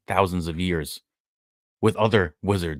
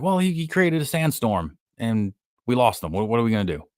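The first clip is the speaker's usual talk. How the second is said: higher, panicky mock excuse; flustered excuse; 5 semitones higher than usual. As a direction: babble the excuse like a scared henchman. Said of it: "And he's like".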